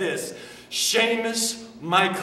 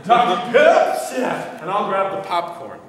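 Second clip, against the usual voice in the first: put-on Irish accent; 4 dB louder than usual. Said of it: "funnier if he does".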